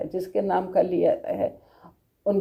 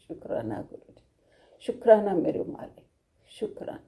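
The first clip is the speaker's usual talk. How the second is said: murmured prayer; 2 semitones lower, 5 dB quieter than usual. Real, not acted. प्रार्थना में धन्यवाद दोहराती.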